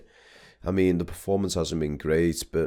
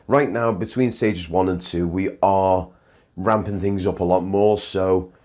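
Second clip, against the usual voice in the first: louder, brisk outro host, talking fast; Live Luke outro; 4 dB louder than usual. Acted. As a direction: pump up the sign-off like a live host. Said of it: "send you right now to Live Luke".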